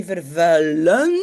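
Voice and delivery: vervuilend said slowly with the ending -end stressed; contrast stress. Shown as a demonstration. Teacher to French-speaking students contrasting vervuild, slow stressed vervuilend. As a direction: lean on the -end of vervuilend to set it against vervuild. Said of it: "bien faire la différence entre vervuild".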